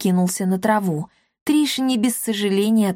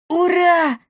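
much higher happy cheer; joyful cheer; 10 semitones higher, 3 dB louder than usual. Acted. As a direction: cheer at being let off. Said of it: "обрадовался Пима". (радостное «ура»)

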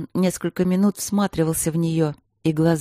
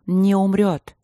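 firmly raised, refusing to accept it; 3 semitones higher, 4 dB louder, slower than usual. Acted. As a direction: voice lifted in protest. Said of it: "повышая голос".

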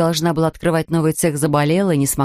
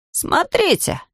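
higher, slow wondering cry; excited exclaim; 11 semitones higher, slower than usual. A narrator's reading. Jonathan points at the warehouse, amazed higher cry. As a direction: call out amazed, drawn out.

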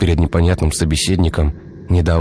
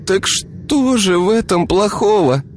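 puzzled; slower than usual. A narrator's reading. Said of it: "недоумевая".

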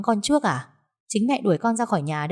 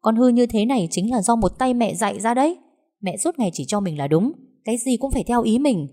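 angry retort; 5 semitones higher than usual. Acted. Daughter angrily retorts to mother.

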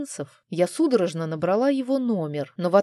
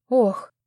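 sigh; 5 semitones higher, 5 dB louder than usual. Acted. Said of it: "вздохнула я".

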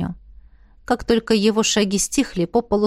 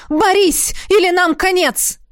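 much higher, urgent cry; insistent desperate shout; 10 semitones higher, 4 dB louder than usual. A narrator's reading. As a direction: plead loudly, demand she fight. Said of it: "Голос звучал всё настойчивее". (настойчивый отчаянный крик)

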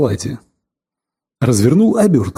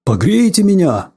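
voice of ice; 3 semitones higher than usual. Pretend. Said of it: "Ответил голосом льда".

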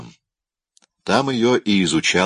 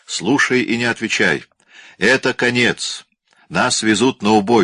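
raised, urgent calling voice; shouting at the top of his lungs; 4 semitones higher than usual. Acted. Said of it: "стал кричать во всё горло".

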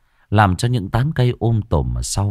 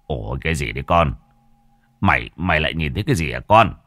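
panicked; 4 semitones lower, faster than usual. A narrator's reading. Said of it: "thì hốt hoảng".

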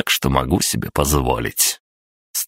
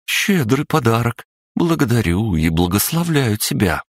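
gracious goddess; 8 semitones higher than usual. Acted. Goddess Marena speaks.

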